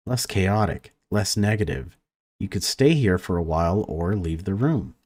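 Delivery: even, measured read-aloud of game text; story narration. A narrator's reading. Gamer reads a conservatory scene to viewers, story narration. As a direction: narrate it evenly, pausing between sentences.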